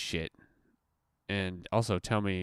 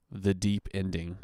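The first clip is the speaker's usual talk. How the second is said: mock deep voice; 3 semitones lower, slower than usual. Shown as a demonstration. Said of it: "That's what we're gonna call that".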